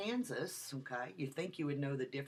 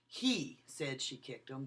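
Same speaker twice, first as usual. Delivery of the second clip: slow, with He leaned on hard; stress on HE; slower than usual. Shown as a demonstration. Lecturer demonstrating stress on He to students. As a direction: hit the word He, then the rest light. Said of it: "I changed the emphasis of the word".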